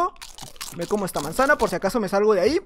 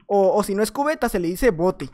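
ordinary delivery

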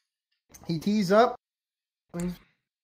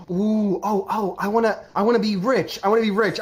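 acted excited rush of wanting; slightly higher, eager stammer; eager wishing; 3 semitones higher than usual. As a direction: play a girl bubbling over with her wish. Girl eagerly makes her wish.

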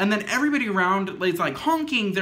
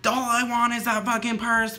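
mock yell, pitched up a little; retold yelling; 4 semitones higher than usual. Storyteller quoting the homeless lady demanding the purse, mock yelling. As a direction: imitate the homeless lady yelling, without full volume. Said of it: "yelling at me".

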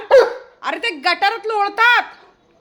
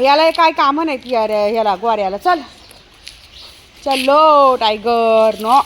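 usual speaking voice

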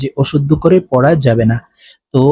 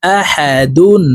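slow, drawn-out আহাদুন; slow recitation; 2 semitones higher, much slower than usual. Shown as a demonstration. Teacher recites the word slowly for students. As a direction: stretch it out like recitation. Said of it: "ডাল দুই পেশ দুন".

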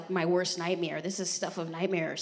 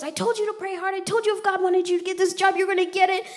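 high, louder told-you-so mother; a hint of an insistent mom, higher; 10 semitones higher, 4 dB louder than usual. Mother reminding her daughter to pray, insistent and high. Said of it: "She goes".

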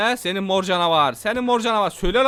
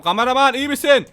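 calling out; 5 semitones higher, 6 dB louder than usual. Real, not acted. Calling to cameraman loudly.

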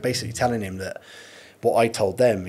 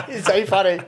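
bursting out laughing, higher and louder; real laughter; 11 semitones higher, 5 dB louder than usual. Real, not acted. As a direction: laugh it out, then squeeze the words through. Cracking up at his own story.

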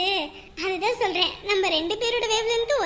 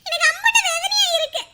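mock whining; 3 semitones higher, 3 dB louder than usual. Whines about forgotten birthday.

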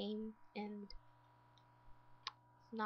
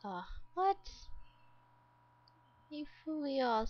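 irritated outburst; 3 semitones higher than usual. Real, not acted. Gamer scolding her Sims for skipping, irritated. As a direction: snap at the screen in irritation. Sims missed their walk.

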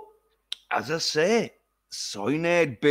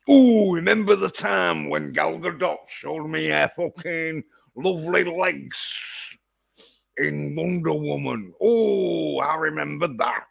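mock drunken reminiscing; 3 semitones higher than usual. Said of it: "putting on a drunken accent".

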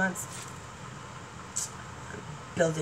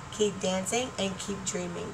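soft sign-off; 8 dB quieter, slower than usual. Real, not acted. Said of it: "that's gonna be my new slogan".

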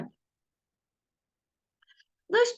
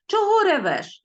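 «ревеш» said with mock scorn, louder and higher; contemptuous demo; 10 semitones higher, 4 dB louder than usual. Shown as a demonstration. Teacher demonstrating the rude boy's scornful question. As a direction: sneer out «Чого ревеш?» as the rude boy. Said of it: "ревіти ... зневажливе".

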